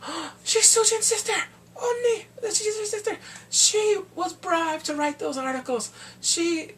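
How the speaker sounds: high, loud accusing lawyer; mock accusing lawyer. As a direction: throw the accusation at the witness. Lawyer accusing witness in court.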